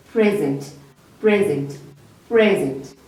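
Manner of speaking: "Present" repeated as PRE-zent, each falling; separate, deliberate repeats of PRE-zent; stress on first syllable. Shown as a demonstration. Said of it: "our emphasis on the first part".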